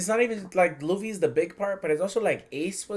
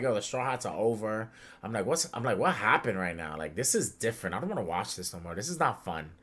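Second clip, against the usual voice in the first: mock sad; 7 semitones lower, 8 dB quieter than usual. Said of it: "I'm crying".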